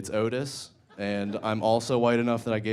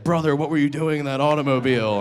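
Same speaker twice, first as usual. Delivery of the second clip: loud Amish man greeting; 5 semitones higher, 6 dB louder than usual. Retold or imitated.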